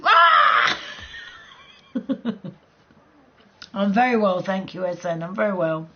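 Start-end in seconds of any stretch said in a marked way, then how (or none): 0.0-0.8 loud high yelp; mock scream. Recounting a GTA video, a sudden loud yelp. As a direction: let out a shocked yell. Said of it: "it's like".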